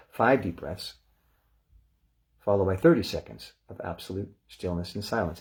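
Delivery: calm, measured breathing instructions; guided breathing cue. Acted. Meditation teacher guiding the group, calm and measured. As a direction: talk them into the breath gently.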